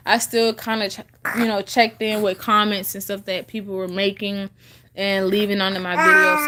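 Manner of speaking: chewing gum while talking; talking around gum in mouth; mouth full. Real, not acted. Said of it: "Sorry, I got gum in my mouth".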